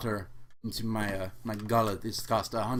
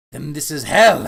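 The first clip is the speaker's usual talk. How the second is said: trepidation; 3 semitones higher, 12 dB louder than usual. Acted. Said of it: "said with some trepidation".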